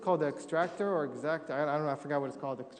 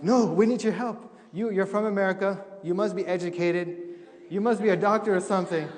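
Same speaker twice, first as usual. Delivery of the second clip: eager doctors insisting he must help; urgent pleading; 2 semitones higher, 3 dB louder than usual. Retold or imitated. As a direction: beg the visiting American to step in. Doctors begging for his help.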